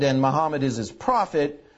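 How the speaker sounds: ordinary talk, nothing marked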